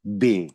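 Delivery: बे said as bay; name the letter बे, German style. Shown as a demonstration. Teacher names German B, bay sound. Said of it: "B को हम pronounce करेंगे German language में".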